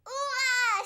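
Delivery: a loud joyful hurrah; happy cheer. Acted. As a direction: cheer it out like a thrilled kid. Child cheers when night falls.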